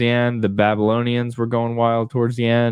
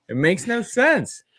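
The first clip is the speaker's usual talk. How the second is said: high, slow exasperated squeal; mock-outraged falsetto; 11 semitones higher, slower than usual. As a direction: stretch it out way up high in disbelief. Repeats it in exaggerated voice.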